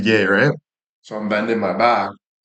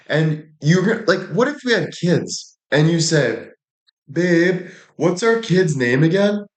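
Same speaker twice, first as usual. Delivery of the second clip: higher, exasperated mock rant; pissed off; 7 semitones higher, slower than usual. Scolding his girlfriend for forgetting the hamster's name, exasperated. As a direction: scold her in an upset, raised voice. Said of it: "So I was pissed".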